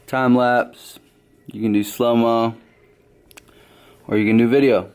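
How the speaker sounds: talking round a hard candy; candy in the mouth while speaking; mouth full. Real, not acted. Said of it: "I got a Jolly Rancher in my mouth".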